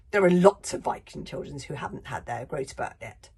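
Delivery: loud, firm defiance; defiant protest. Acted. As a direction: protest it stubbornly. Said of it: "protested Stoic defiantly".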